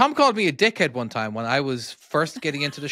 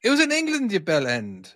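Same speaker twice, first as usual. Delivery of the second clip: laughing through a playful insult; giggling mid-word; 5 semitones higher than usual. Real, not acted. Irish host teasing cohost, laughing. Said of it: "It doesn't sound right when I say bell end".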